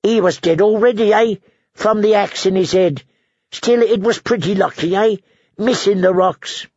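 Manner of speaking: high, dry, mournful drone; deadpan misery, every line a sigh; gloomy Ed voice. Acted. Dolorous Ed tells the brothers about Wat, glumly. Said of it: "said Dolorous Ed".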